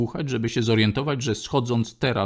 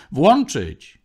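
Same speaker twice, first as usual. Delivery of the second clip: loud, high barked command; shouted demand; 5 semitones higher, 7 dB louder than usual. A narrator's reading. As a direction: yell it from the crowd. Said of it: "krzyknął ktoś".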